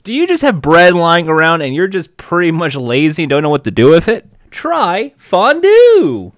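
upbeat pitchman voice; over eager infomercial. Acted. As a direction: sell it like a TV ad. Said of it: "infomercial style reaction".

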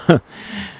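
a breathy little laugh through tears; real, embarrassed laugh breaking the crying; teary laugh. Real, not acted. Speaker catching himself after tearing up, a breathy teary laugh. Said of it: "I got a little choked up".

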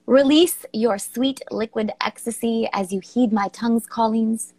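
measured, declamatory poem read aloud; dramatic poem reading. Acted. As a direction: savour each phrase like a seductive recital.

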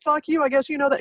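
high-pitched mock retort; retold comeback. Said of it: "And I was like".

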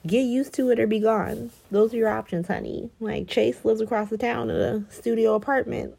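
sassy matriarch telling her off; mock Carly. Carly telling Willow to get used to it, sassy mock. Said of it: "She was like".

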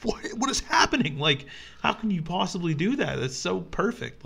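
stunned admiration, lightly played; retold amazement. Friend hearing her Scottish accent, lightly amazed.

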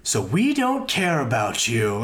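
low, slow deadpan dad voice; lightly voiced father delivering bad news. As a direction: drop it flat and slow like a stern dad. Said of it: "he goes".

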